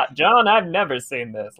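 lightly voiced second commentator, understated; commentary partner. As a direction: answer as the calmer partner in the booth. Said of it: "commentary with John Madden going".

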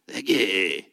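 dropped low, muffled thank you; a deep put-on thanks. Shown as a demonstration. Pastor showing the other thank you, low and muffled. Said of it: "Doesn't sound even cool".

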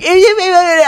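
high mock whining of the sisters; whining sisters impression. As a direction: imitate the sisters bleating, pitched high. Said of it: "the sisters would come in and they'd be like".

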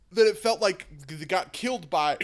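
words pushed out through a burp. Real, not acted. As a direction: talk right through a burp. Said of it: "Sorry, that was a super awkward burp".

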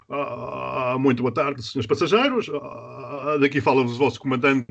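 lightly voiced pilot on the intercom; mock cabin announcement from the captain; airline captain announcement. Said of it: "imaginar o comunicado feito pela tap".

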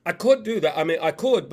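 attempted British accent; a hint of British accent. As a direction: imitate a British actor, lightly. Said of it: "it's hard to do the accent".

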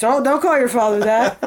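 high, loud mock Indian accent; bad Indian accent. Temple lady chiding the daughter about the father, bad Indian accent. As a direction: imitate a scolding Indian lady in a poor accent. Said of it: "I'm trying to be her Indian".

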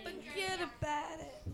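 soft, slow New York imitation; mock New York accent. Mimicking the skit's New York accent.

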